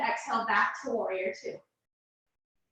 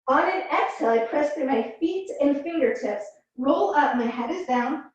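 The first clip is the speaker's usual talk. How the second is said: speaking with face down on the mat; muffled voice, forehead to the floor; 2 semitones higher than usual. Real, not acted. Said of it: "my voice is gonna be muffled".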